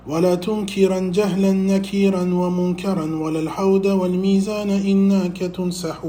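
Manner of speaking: level, sustained Arabic poem chant; quick, metrical recitation; verse recitation. Acted. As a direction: recite the didactic verse on a nearly even pitch.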